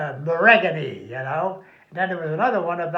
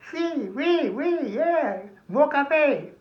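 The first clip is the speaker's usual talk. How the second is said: higher eager oui; lightly voiced eager Frenchman; 8 semitones higher, much slower than usual. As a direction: beg for more cafe.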